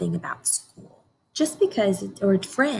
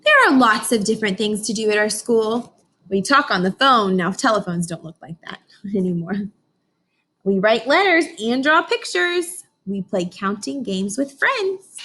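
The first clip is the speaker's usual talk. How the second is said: put-on reading to children; 3 dB louder than usual. Teacher reads picture book aloud.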